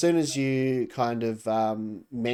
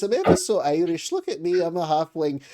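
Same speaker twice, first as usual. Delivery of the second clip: a higher, lilting Irish halfling voice; 5 semitones higher, 5 dB louder than usual. Shown as a demonstration. GM corrects his halfling demo to an Irish accent. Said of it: "actually, it's more like this".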